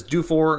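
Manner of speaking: "Dufour" said the English way, with an r at the end; Anglophone pronunciation. Shown as a demonstration. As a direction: say "Dufour" as an English speaker would, r sounded. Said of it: "people that are Anglophone".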